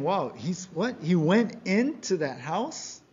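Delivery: mock scandalized questioning; grumbling disbelief. Crowd grumbling about Jesus entering that house, incredulous. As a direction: play the crowd's incredulous complaint, lightly. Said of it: "they complain, they grumble, saying".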